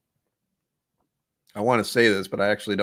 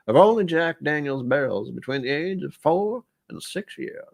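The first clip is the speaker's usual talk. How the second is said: lightly voiced old Southern gentleman, higher; a hint of an old Southern gent reading the label, pitched up; 5 semitones higher, 3 dB louder than usual. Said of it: "I'm gonna read this in an old, what is it, old man, old style voice? Southern gentleman?".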